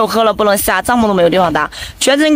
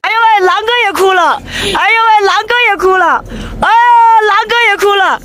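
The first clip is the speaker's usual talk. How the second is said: high-pitched fussing over a crying friend; exclaiming; 10 semitones higher than usual. Real, not acted. Traveller exclaims as Wolf brother starts crying, high exclaiming.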